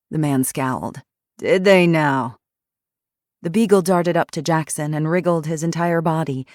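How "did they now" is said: put-on hoarse, grumpy old ex-cop; gruff old man. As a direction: growl it like a surly old man. Grumpy retired cop speaks.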